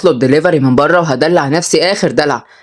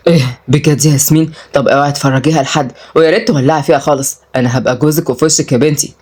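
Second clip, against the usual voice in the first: lightly voiced man in a lowered pitch; low, mildly urgent plea; embarrassed suitor; 4 semitones lower than usual. Suitor asks cousin to burn the photos, embarrassed.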